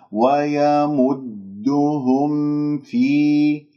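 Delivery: slow chanted ويمدهم في with audible m; clear meem before faa. Shown as a demonstration. Teacher lets students hear the meem, slow measured recitation. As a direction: sound the m fully, then open to في. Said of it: "لازم أسمع صوت الميم المظهرة".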